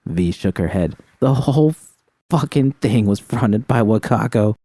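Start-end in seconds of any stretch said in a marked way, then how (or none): 1.2-4.5 high, stammering, tearful street woman; rattled and hurting, pushing through; shaken young woman. Acted. V voice again.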